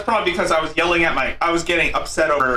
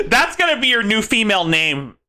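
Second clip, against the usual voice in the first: laughing; 4 semitones higher than usual. Real, not acted. Laughing while teasing.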